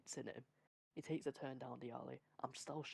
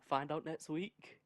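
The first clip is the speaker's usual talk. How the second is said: slow, drawn-out promo announcer; trailer voice; 6 dB louder, much slower than usual. Pretend. Podcast host teasing next week's story, slow trailer read. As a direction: tease it like a show trailer. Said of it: "mock promo voice".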